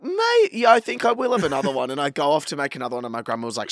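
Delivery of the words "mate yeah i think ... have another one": very high, strained grandpa voice; hammed-up struggle to get words out; queasy grandpa. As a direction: imitate an overfull grandpa pushing on. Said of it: "like, he could barely talk".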